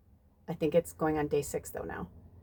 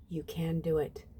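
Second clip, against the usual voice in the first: said again much softer, as a gentle reassurance; softer repeat; 7 dB quieter than usual. Shown as a demonstration. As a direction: let the encouragement drop to a soft hush. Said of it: "And you can do it".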